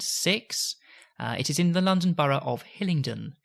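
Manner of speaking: measured announcer read. Acted. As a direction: read the facts like a station announcer. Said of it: "he has the best announcer voice".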